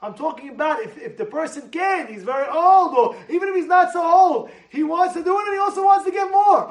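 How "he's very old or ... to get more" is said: rising, louder and higher; building shout. Real, not acted.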